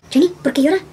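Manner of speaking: worried mom asking. Retold or imitated. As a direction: mom turning to her daughter for answers. Mom asks daughter why.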